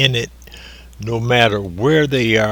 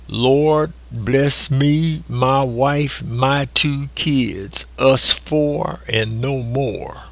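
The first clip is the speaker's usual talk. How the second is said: mock selfish prayer; 3 semitones higher, slower than usual. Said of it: "in an example of a selfish prayer".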